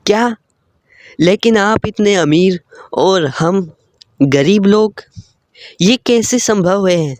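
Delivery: surprised humble father. Acted.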